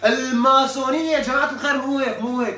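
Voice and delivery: loud, insistent no; exasperated correction. Real, not acted. Correcting the audience loudly.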